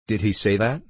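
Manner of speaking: lightly indignant question; a touch of indignation. Acted.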